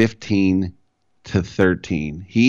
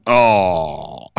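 imitating Tim Ryan; 4 semitones higher than usual. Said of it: "you can hear Tim Ryan going".

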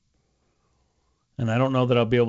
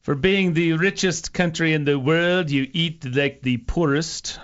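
slightly raised, slow, badly imitated accent; bad Gary Player accent; 4 semitones higher, slower than usual. Radio host mimicking a golfer scolding American eating, bad accent. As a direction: stretch it out in a poorly faked accent. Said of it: "That's a really bad accent".

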